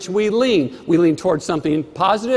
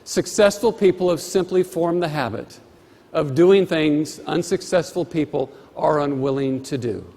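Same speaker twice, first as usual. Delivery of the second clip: slow dictation; 3 semitones lower than usual. Shown as a demonstration. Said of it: "you may wish to write this".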